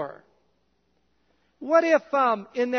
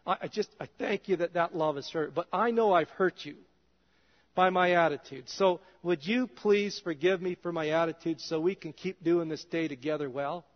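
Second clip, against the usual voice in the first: a lowered, earnest prayer voice; humble prayer; 3 semitones lower than usual. Retold or imitated. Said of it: "and just quickly say".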